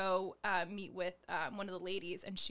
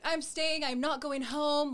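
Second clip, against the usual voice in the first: determined; 6 semitones higher, 6 dB louder, slower than usual. Retold or imitated. Retold decision to stay.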